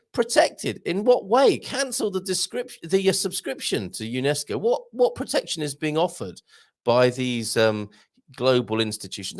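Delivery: indignant inner voice. Retold or imitated. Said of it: "I'm thinking to myself".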